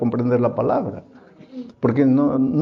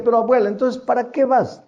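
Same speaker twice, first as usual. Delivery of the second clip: higher, teasing grandson voice; a hint of a scoffing grandson, higher; mocking grandson; 5 semitones higher than usual. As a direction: needle the forgetful grandmother. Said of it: "el más burlón, le decía".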